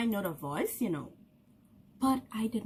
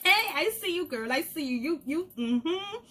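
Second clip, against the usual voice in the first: friendly hail; 4 semitones higher than usual. Retold or imitated. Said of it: "Be like".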